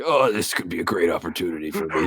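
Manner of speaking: upbeat, eager cyborg hero voice; cheerful Adam Jensen. Pretend. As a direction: play him sunny and keen. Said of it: "he's very happy about it".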